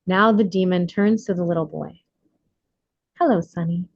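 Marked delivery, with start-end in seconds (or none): 3.2-3.8 gently. Acted. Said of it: "he begins gently".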